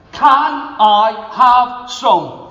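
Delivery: very slow, drawn-out "Can I have some?"; old man begging the girl for food, slow; slow pleading. Acted. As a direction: stretch every word of the plea. Old man asks slowly.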